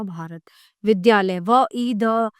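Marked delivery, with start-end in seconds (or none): 1.4-2.3 व, ई, द as separate letter sounds; sound-by-sound breakdown. Shown as a demonstration. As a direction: start splitting विद्यालय into व, ई, द, one sound each. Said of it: "वर्णों को अलग अलग किया जाता है".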